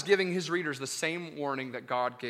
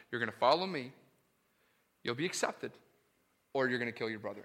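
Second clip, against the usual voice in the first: hushed restatement; 5 semitones lower, 5 dB quieter, faster than usual. Acted. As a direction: lower and much softer, grave. Same choice, repeated softly.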